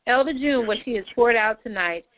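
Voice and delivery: earnest prayer voice, lifting names up to God; closing prayer. Real, not acted. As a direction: pray it over the group with conviction.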